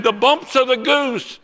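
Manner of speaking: high, loud, stretched-out repeat; excited insistence. Retold or imitated. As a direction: insist on the phrase, loudly and slowly. Friend repeats his odd phrase loudly.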